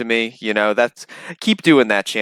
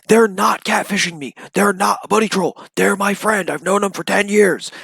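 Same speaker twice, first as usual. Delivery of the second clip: higher, insistent imitation of a streamer protesting too much; lightly voiced mock denial, trying to convince himself; mock defensive Cyrax; 7 semitones higher than usual. Commentator mocking Cyrax's denial, higher pitched and protesting. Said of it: "he starts snapping out about it".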